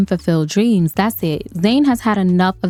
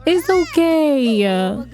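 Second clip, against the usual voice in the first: put-on slow, higher-pitched coo to a baby; soothing; 5 semitones higher, much slower than usual. Player hushing a stressed-out game baby, soothing. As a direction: draw it out to comfort a little one.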